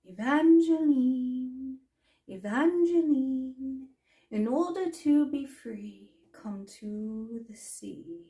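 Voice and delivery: slow, drawn-out calling from far away; a distant voice luring her to the sea. Acted. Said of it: "her name being called from the sea".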